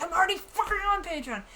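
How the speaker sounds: loud, high-pitched retold protest; exasperated retort. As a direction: act out fed-up disbelief. Retorts to imagined advisers.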